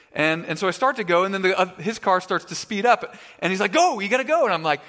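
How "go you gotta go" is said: higher, louder retold urging; urgent urging. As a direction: act out a friend pushing you to go. Retold friend urging a car chase.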